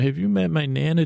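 a hint of a teasing goddess, brisk; the Crone's voice, lightly done. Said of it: "And I can hear you saying".

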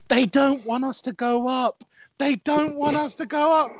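high, loud, drawn-out mock scream; imitated screaming. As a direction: mimic a ranting man screaming at the telly. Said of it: "he was just screaming".

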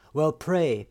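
mother urging her daughter at the shrine; beseeching. Acted. Mother begging daughter to pray harder, urgent. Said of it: "she beseeched me".

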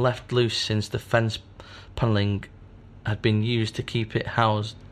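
measured storytelling read; story narration. Acted. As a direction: read it like a dark tale. Reads story aloud.

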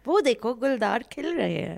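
rapid excited wildlife-show narration; nature documentary. Acted. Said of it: "I can write a good wildlife documentary".

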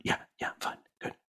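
quick, hushed, breathy denial; softly voiced nervous young actor; nervous brush-off. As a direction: brush him off while hiding nerves. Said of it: "And I went".

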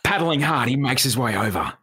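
lightly ocker rescue narration; a hint of dramatic Australian voice-over; Bondi Rescue narrator. Shown as a demonstration. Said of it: "ochre it up a bit".

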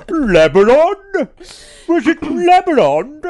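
high, loud, incredulous squeal; mock disbelief. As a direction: squeal it in fake shock. Mocking the pause.

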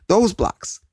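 put-on high-pitched, exasperated child; insistent kid. Kid answering puzzled parents, high insistence.

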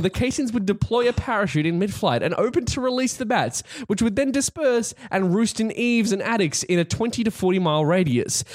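podcast explainer read; reading an article aloud. Real, not acted. Host reading co-hosts the bat bomb history, narrated explainer. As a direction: read out the facts in full, even sentences.

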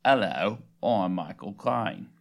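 low, drawn-out celebrity impression; Michael Caine. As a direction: deepen it and stretch the vowels. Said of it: "That was not impressive".

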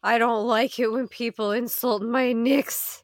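lightly voiced folksy brawler; cheerfully menacing fighter character. Player threatens the bugbear in character, folksy menace. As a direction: play a chummy brawler eager to fight.

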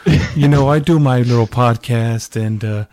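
imitating a friend's quirky hum between phrases; Clint. Guest impersonating friend plugging his podcast, quirky mimicry. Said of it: "he was like".

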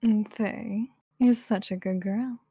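slow, teasing praise in a dommy voice. Pretend. Co-host teasing Faye with praise, dommy voice. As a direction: purr the praise slowly, like a domme. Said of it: "I don't feel comfortable using this voice".

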